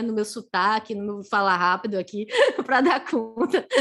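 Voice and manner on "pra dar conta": laughing through the words, slowed; a real giggle breaking into the phrase; chuckling while thanking the interpreter. Real, not acted. Laughing at own fast speech.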